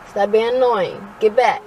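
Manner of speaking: scolding. Real, not acted. Mother scolding her child.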